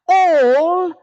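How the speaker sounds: all breathed out as a loud whisper. Shown as a demonstration. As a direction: hiss the word all dramatically. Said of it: "notice what Shoghi Effendi then does".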